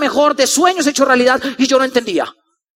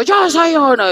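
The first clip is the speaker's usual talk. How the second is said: mock yell, pitched above the narration; stretched imitation of a crowd shout; imitated crowd answer; 3 semitones higher, slower than usual. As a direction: answer like a chanting crowd, not at full volume. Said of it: "la gente gritó".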